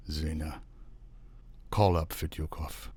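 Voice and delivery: hollow voice. A narrator's reading. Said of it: "he said in a hollow voice".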